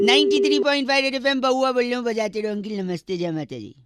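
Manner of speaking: fast RJ sign-off; upbeat FM host patter; radio jockey. Acted.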